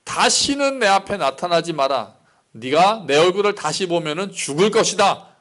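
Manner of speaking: mildly stern, threatening Pharaoh; understated royal threat; angry Pharaoh. Acted. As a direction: act out a ruler's angry warning, without shouting. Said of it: "바로가 굉장히 화를 내죠".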